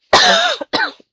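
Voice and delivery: loud hacking cough; real sudden coughing; coughing fit. Real, not acted.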